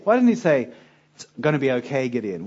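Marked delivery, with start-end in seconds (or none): 1.1-2.4 gentle. Pretend. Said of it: "start with something gentle".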